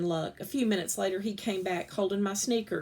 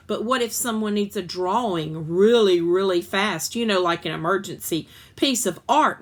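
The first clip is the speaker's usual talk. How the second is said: hopeful excuse; 6 dB louder than usual. Acted. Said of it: "my mother tried".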